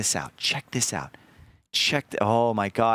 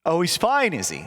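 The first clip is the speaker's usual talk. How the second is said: sarcastic; 6 semitones higher than usual. Retold or imitated. Mocking the friend's claim that the missing guy is fine. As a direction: sneer it back, rising then sinking. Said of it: "I was like".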